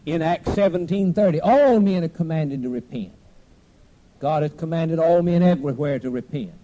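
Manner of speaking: emphatic, loud pulpit proclamation; forceful preaching. Real, not acted. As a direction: proclaim scripture, hitting ALL hard.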